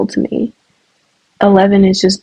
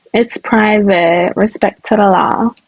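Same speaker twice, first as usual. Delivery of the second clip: slow, lightly voiced deadpan quote; a hint of a composed interview answer, slow; quoting Onijah; slower than usual. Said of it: "I quote Onijah".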